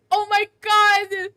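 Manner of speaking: high-pitched ecstatic squealing; real fangirl shriek of delight; excited. Real, not acted. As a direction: squeal it, overcome with joy. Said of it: "I'm so excited!".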